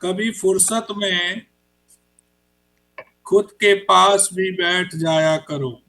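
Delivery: slow, measured recital with pauses between lines; unhurried Hindi poetry reading; poem recitation. Acted. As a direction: let each line land like a verse at a mushaira. Poet recites his poem.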